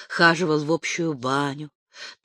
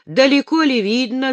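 suppressed rage; 7 semitones higher, 6 dB louder than usual. A narrator's reading. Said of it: "с затаённой яростью спросил".

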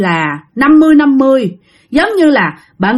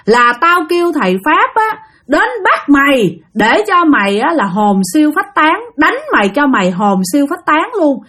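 heated tirade, pitched up, building in threat; acted furious husband scolding, insistent and higher; angry cursing; 5 semitones higher than usual. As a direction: dare the spirit to fight you. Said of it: "bạn gằn lên, bạn chửi quá trời".

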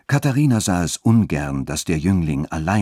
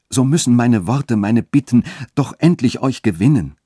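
higher, pressing declaration of love; impassioned calling out; 6 semitones higher, 4 dB louder than usual. A narrator's reading. Young man begs the woman he loves to accept him, impassioned. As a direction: plead ardently, swelling on the key words. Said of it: "rief Friedrich".

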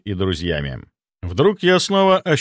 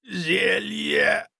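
hoarse rasp; 9 semitones higher than usual. A narrator's reading. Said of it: "прохрипел я".

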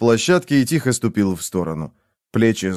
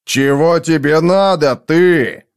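a mild growl from Foyle, pitched up and louder; 6 semitones higher, 4 dB louder, slower than usual. A narrator's reading. Foyle growls at Robin, demanding what she wants, mildly snarled. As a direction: snarl the question at her, half-restrained. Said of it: "прорычал Фойл".

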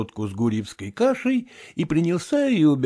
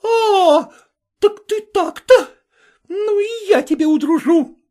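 high, loud taunting; furious taunt; 5 dB louder than usual. Acted. Vasilisa daring the cook, loud. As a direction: dare him, furious.

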